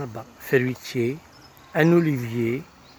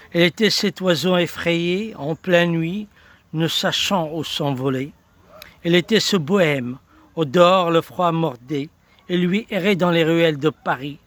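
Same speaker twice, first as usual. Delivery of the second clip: lightly declaimed, measured verse; poem recitation; 3 semitones higher than usual. Acted. Presenter tells of the bohemian wandering Paris, poem recitation. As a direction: recite it as a poet's life told in verse.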